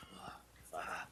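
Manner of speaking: breathy voiceless ah sounds; voiceless gasp. Retold or imitated. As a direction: try to speak with no voice. Patient unable to speak.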